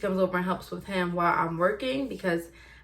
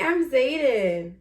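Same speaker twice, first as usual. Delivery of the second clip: slow prompting; 4 semitones higher, slower than usual. Shown as a demonstration.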